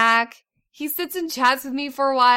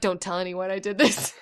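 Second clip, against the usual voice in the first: low, laughing plea to keep it secret; 4 semitones lower than usual. Retold or imitated. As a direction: giggle through a guilty secret.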